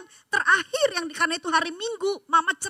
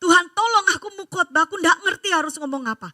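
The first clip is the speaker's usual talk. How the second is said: anxious prayer; 2 semitones higher, 4 dB louder than usual. Retold or imitated. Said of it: "saya bilang sama Tuhan".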